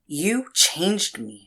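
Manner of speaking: loud, slow, high furious accusation; angry outburst. Acted. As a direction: spit each word at him slowly. Confrontation with former master.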